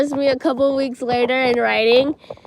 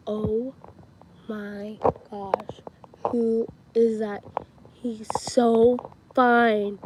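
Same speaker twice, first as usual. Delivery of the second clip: slow, drawn-out swoon with pauses; much slower than usual. Retold or imitated. Two friends eyeing the new boy, slow swooning. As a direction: stretch it out word by word, awestruck.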